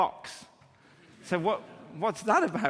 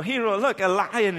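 louder, eager pointing out; excited dad call; 4 semitones higher, 5 dB louder than usual. Retold or imitated. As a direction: announce the lion with mock alarm. Dad pointing out imaginary lion.

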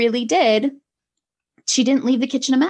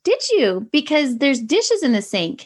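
lightly sing-song retold question; a touch of lilting sing-song; 4 semitones higher than usual. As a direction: point it out in a mild sing-song, not yelling. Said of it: "in a sing-song voice".

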